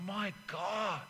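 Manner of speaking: breathless, soft gasped words; winded gasp. Retold or imitated. Winded player on the ground, breathless whisper. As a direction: wheeze it out as if winded. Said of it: "and you go".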